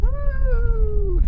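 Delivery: loud high whoop; a real excited woo. Real, not acted. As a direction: cheer it out loud. Cheering at the view.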